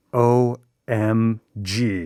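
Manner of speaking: very slow, spelled-out letters; deadpan, drawn-out paraphrase; mock-grave OMG. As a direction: let each letter land separately. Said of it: "He was basically saying".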